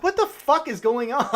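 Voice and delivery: high-pitched mock bafflement; exasperated disbelief. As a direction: blurt it as a baffled viewer. Retelling baffled reaction to bad editing.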